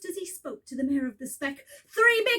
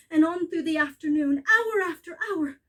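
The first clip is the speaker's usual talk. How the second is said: ordinary delivery, nothing marked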